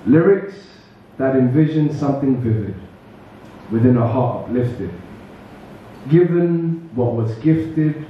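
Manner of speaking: measured spoken-word delivery, spaced by pauses; poetry recital. Acted. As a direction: recite line by line, letting each phrase land. Recites own poem to audience.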